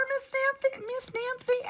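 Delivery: Bunny pressing Miss Nancy in a high voice; pressing question. Acted.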